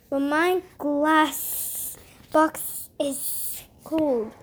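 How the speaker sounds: slow complaining serpent voice; slow snake voice. Acted. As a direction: drawl it like a cold snake.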